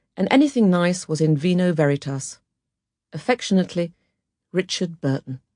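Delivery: plain reading voice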